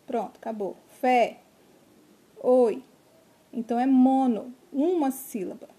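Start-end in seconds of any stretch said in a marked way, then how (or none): 0.9-1.4 "Fé" in one loud beat; one strong push of voice on "Fé"; single burst of voice. Shown as a demonstration. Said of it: "Você emite a voz uma vez só". 2.4-2.8 "oi" in one loud beat; one strong push of voice on "oi"; single burst of voice. Shown as a demonstration. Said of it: "Você emite a voz uma vez só".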